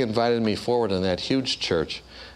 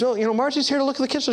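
nervous hurry; much faster than usual. Retold or imitated. Nervous quick explanation.

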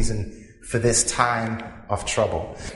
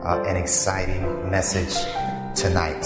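low calm voice; 5 semitones lower than usual. Real, not acted. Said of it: "in a very low, calm voice".

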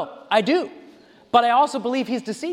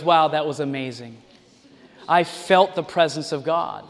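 lower, breathless mock awe; awed churchgoer; 6 semitones lower than usual. Congregation impressed by the preacher, in mock awe. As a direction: gush like a dazzled churchgoer. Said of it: "Everybody goes".

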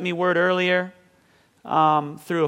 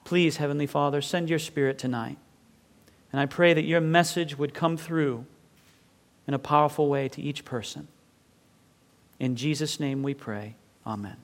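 soft, low prayer with measured pauses; praying; 3 semitones lower, 5 dB quieter than usual. Real, not acted. Pastor asking God's blessing on tonight's meeting, praying softly. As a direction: pray gently and reverently over the congregation.

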